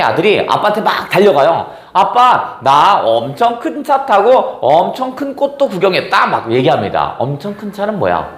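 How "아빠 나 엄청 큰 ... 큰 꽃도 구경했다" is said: lightly acted excited little boy, pitched up; higher, childlike boasting; excited child. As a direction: tell Dad eagerly, like a child. Child runs to dad, boasting.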